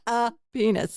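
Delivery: awkward, drawn-out wording with a laugh creeping in; slow, uncomfortable. Real, not acted. Host owning up to an awkward word, slow and uncomfortable. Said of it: "say it very slowly and uncomfortably".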